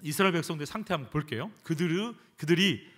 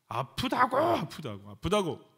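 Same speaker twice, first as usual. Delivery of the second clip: complaining prayer demo; slower than usual. Shown as a demonstration. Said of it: "뭐 이렇게".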